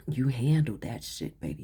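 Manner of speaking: loud, punchy and proud; emphatic praise. Real, not acted. Reader cheering the client on, loud and proud. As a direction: hammer it home with pride.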